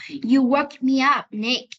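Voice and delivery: "You woke me up, Nick" drawn out, falling from "woke"; slow model reading of "You woke me up, Nick" with melody; expressive intonation. Shown as a demonstration. Teacher shows students the sentence tune, expressive intonation. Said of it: "đấy là một phần ngữ điệu trong câu".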